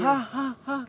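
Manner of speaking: friends' hyped teasing. Retold or imitated. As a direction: yell like hyping friends. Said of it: "temen gue pada tambah".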